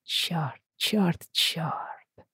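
soft whispered curse; horrified whisper. Acted. Roger whispering a curse to himself in dread. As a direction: breathe it in dread.

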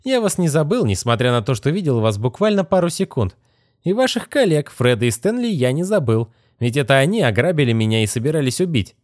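a hint of a sneering young wizard; smug young wizard. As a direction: toy with her, amused and dry. Wizard accuses Kitty.

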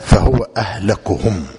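أهلكهم with a u on the kaf, "ahlakuhum"; damma on the kaf. Shown as a demonstration. Teacher dictates the hadith to students, أهلكهم read as ahlakuhum. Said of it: "وأهلكهم بالضم".

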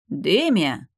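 indignant gasp. A narrator's reading. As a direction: gasp her name, scandalised. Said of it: "возмущённо ахнул Нарейн".

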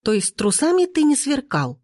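high, incensed challenge; indignant fury. A narrator's reading. Lina to cheating boyfriend, furiously accusing. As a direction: pitch it up in acted outrage. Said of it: "Лина взвилась фурией".

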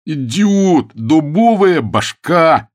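loud, high, slow yell; furious shout at Bilson. A narrator's reading. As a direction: bellow the insult. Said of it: "завопил Акридж".

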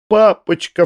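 high outcry to a father; emotional cry. A narrator's reading. Саша rushing to her father, high emotional cry. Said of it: "вскричала Саша".

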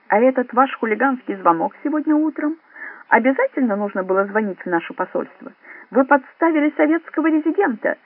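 high, theatrical indignation; with pathos. A narrator's reading. Resident lectures Drongo about the embassy call, full of pathos. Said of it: "патетически произнёс Галинский".

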